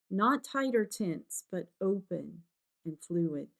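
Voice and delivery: calm, unhurried meditation guide; guided meditation. Real, not acted. Guide settling a listener before brush painting, calm meditation voice. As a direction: ease them gently into stillness, with pauses.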